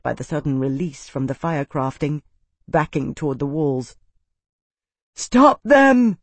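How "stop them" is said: urgent shout, high and loud; gasped cry. A narrator's reading. Isana crying out to stop the fight, loud gasp. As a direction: cry out to halt them. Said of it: "Isana gasped".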